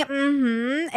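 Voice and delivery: rising, closed-mouth "mm-hmm"; demonstrated hum of agreement; agreeing hum. Shown as a demonstration. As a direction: say yes with your mouth closed. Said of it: "is just saying yes in your mouth".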